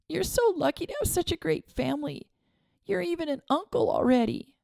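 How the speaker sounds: put-on a sad girl envying a friend; tearful girl's voice. A narrator's reading. Girl telling her friend he is lucky, tearful.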